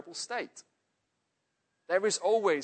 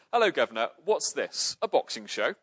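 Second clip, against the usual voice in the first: rough bloke; 6 dB louder than usual. Acted. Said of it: "the bloke says this".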